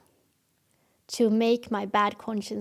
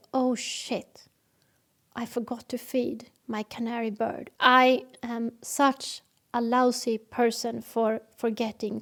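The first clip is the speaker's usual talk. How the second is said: spiral into self-blame; dysfunctional guilt spiral. Shown as a demonstration. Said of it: "The dysfunctional way to handle this problem".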